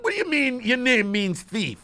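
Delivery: ordinary talk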